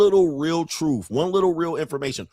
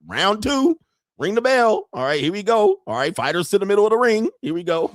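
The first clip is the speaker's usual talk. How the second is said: ring announcer; 6 semitones higher, 3 dB louder than usual. Pretend. Announcing a boxing round.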